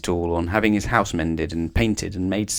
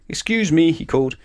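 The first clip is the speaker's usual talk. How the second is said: higher, louder call across the garden; 6 semitones higher, 4 dB louder than usual. Acted. Old man calling to Mister Mean from his garden, calling out. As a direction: call to someone passing by. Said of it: "called out".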